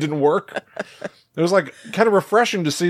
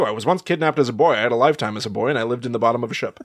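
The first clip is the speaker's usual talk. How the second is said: a hint of Dan Aykroyd, lightly voiced; Dan Aykroyd impression; 3 semitones lower, faster than usual. Doing Erica's odd phrasing as a light Dan Aykroyd. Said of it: "you doing Dan Aykroyd".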